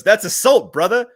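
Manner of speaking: Billy Madison voice. Retold or imitated. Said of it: "and he goes".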